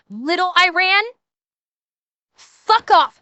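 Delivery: worked-up scolding, building to a dismissal; indignant rant. Acted. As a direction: throw the accusation right back at them. Acted quarrel, rebuking an accuser.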